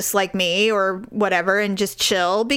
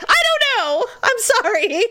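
much higher, squeaky sorry; sheepish apology; 12 semitones higher than usual. Retold or imitated. Apologising to her husband, squeaky and sheepish. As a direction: apologise like a caught child. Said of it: "And I'm like".

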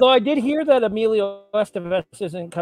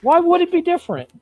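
exasperated; 11 semitones higher than usual. Acted. Mock despair after losing.

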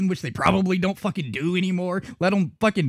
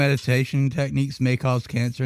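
mouth full; 3 semitones lower than usual. Real, not acted. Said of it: "That's why my mouth is full".

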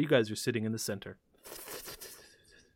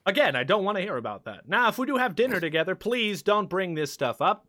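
higher, prim rebuke; uncomfortable host; 4 semitones higher, 3 dB louder than usual. Acted. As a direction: shut the topic down. NPC rebuffs crude talk.

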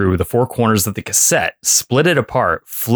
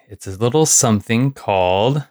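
reversed speech; played backwards. Shown as a demonstration. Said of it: "what the hell happened to your voice just then".

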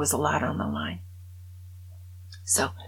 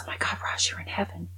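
awed whisper; 7 dB quieter than usual. Retold or imitated. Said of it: "Bob goes".

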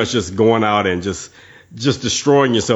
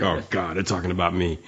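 softer, mock-sheepish aside; sheepish realisation; 4 semitones lower, 9 dB quieter than usual. Listener realising the hosts mean him, mock sheepish. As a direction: drop the volume, as if caught out.

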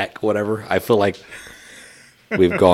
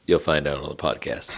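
laughing reply; 4 semitones lower, 3 dB quieter than usual. Retold or imitated. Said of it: "And he's like".

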